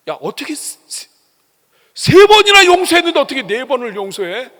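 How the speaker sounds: the tempter exploding in disbelief; indignant devil. Acted. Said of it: "마귀가 그렇거든요". (훨씬 높고 크게 따지는 마귀)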